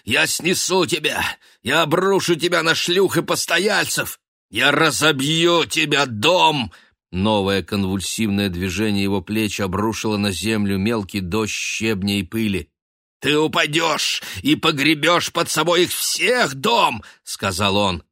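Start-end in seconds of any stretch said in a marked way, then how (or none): 0.0-6.7 building from raised to high loud rage; raving. A narrator's reading. Raving at the house. 13.2-17.0 high, loud crazed threat; frenzied prophecy of doom; raving. A narrator's reading. Raving at the house.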